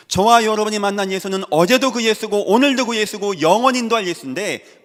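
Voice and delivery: loud, high, insistent pulpit proclamation; full-force preaching. Real, not acted. Preacher proclaiming the unchanging Jesus to the church, loud and fervent. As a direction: hammer home each phrase to the congregation.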